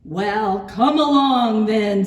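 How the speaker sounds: bold, booming challenge; big goat's loud dare. A narrator's reading. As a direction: call the troll on at full volume. Big goat challenges troll.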